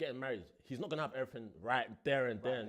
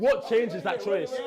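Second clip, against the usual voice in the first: emphatic; 6 semitones higher, 12 dB louder, much slower than usual. Real, not acted. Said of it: "repeated for emphasis".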